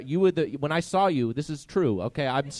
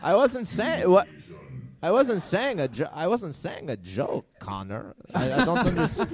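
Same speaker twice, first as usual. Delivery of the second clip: flustered protest in a shoddy put-on accent; indignant, repeatedly restarting, accent badly faked; mad, bad accent. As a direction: get irritated but keep the bad accent going. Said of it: "getting legitimately mad and you remembered to do the shitty accent".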